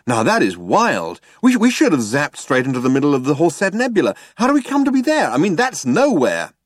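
high-pitched, astonished outburst; excitable Zaphod, amazed. A narrator's reading. Zaphod reacts to the sector they passed, amazed. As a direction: marvel at it, pitch climbing high.

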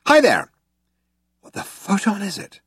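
high-pitched calling out; excited shout. A narrator's reading. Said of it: "shouted Zaphod".

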